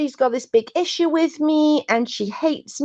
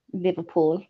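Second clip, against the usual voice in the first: tentative Liverpool accent on "Liverpool"; 3 semitones lower, 6 dB quieter than usual. Shown as a demonstration. Admits being crap with accents, tentative Liverpool accent. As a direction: try "Liverpool" lower, in a Scouse accent. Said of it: "I can do, like".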